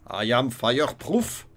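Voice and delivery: slow English in a put-on German accent. Gamer reacting to his fire protection amulet, mock German accent. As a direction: declare it slowly with a German accent. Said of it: "Avec mon accent allemand".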